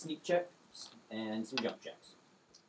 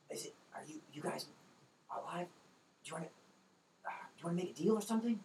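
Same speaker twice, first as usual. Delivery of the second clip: female goblin whisper; 9 semitones higher, 4 dB quieter, much faster than usual. Acted. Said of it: "what sounded like the female goblin".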